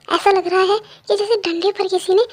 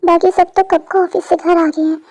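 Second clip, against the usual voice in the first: loud worried fretting; 7 dB louder than usual. Acted. Worried waiting for late son.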